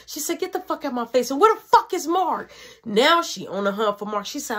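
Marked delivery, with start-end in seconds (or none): 0.4-2.5 retold angry demand; mock mom snapping. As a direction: imitate an irate mother, pitch lifting at the end. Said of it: "She's snapping out".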